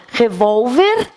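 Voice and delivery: "Revólver" said slowly with a rising end; slow demo word. Shown as a demonstration. Teacher presenting the singular to pupils, slow rise. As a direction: hold "Revólver" with the stress on VOL. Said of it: "eu vou acrescentar E S".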